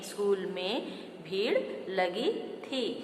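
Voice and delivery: slow and soft with में; slow careful reading. Shown as a demonstration. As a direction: read में slowly and softly. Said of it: "पर नहीं, में".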